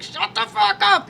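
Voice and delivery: high, slow, strained mock command; retold furious comeback. Woman acting out her comeback to partner, drawn-out exasperation. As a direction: draw out each word in mock exasperation.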